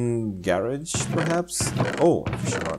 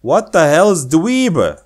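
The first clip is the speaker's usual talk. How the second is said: slower, louder puzzled repeat; puzzled emphasis; 7 semitones higher, 8 dB louder, slower than usual. Shown as a demonstration. Rereading the odd word dweeb, baffled.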